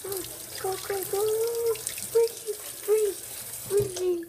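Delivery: loud shocked yelps from cold water; in ice cold water. Real, not acted. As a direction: yell through the freezing shock. Cold water poured on him.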